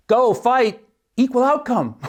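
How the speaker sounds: high-pitched cheerleader chant with a laugh; mock cheer. Podcaster imagining a liberal college team's cheer, mock chanting. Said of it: "a cheer that went something like".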